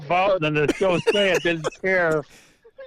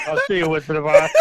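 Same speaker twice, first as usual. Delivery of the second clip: laugh-crying; 4 dB louder, faster than usual. Real, not acted. Pappy signing off, laughing and crying.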